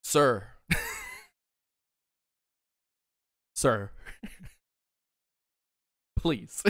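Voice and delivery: begging politely while cracking up; laughing plea. Pretend. Imagined thanking Jake Matthews.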